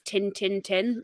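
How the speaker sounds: "tin, tin, tin" for "it isn't in the tin", T's left out; dropped T's. Shown as a demonstration. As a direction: run "tin, tin, tin" together as a clipped-down "it isn't in the tin". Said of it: "missing out all the T's".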